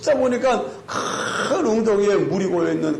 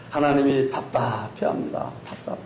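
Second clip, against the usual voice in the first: ordinary delivery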